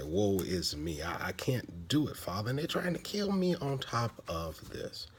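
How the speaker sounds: a hammed-up moan to the Lord; whiny pity party. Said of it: "throwing a pity party".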